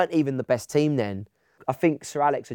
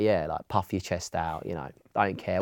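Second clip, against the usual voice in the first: cocky swagger; 5 semitones lower, 5 dB quieter than usual. Retold or imitated. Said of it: "walked around school like".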